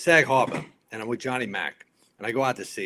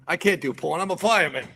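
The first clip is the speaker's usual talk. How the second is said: pitched-up mock outrage; retold refusal building higher; indignant protest; 7 semitones higher, 4 dB louder than usual. Fireman refuses agent's supposed porn job, mildly indignant.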